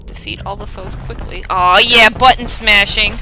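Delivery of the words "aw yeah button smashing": excited. Real, not acted. Hyped for button mashing.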